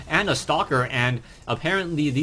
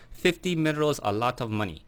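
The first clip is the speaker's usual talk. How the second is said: Hong Kong accent. Shown as a demonstration. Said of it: "my Kanto fake Hong Kong accent".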